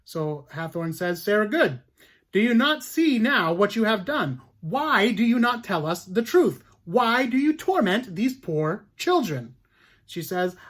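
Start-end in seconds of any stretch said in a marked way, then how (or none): 1.2-9.5 loud, high accusing judge; stern judge. Acted. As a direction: hammer her with each question. Judge Hathorn berates accused woman.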